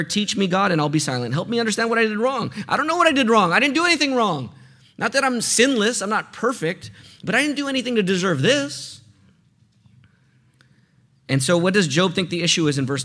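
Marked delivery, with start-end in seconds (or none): 0.0-9.0 higher-pitched, mildly protesting prayer; pleading Job. Acted. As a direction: plead innocence to God, lightly acted. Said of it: "he says to God now in his prayer".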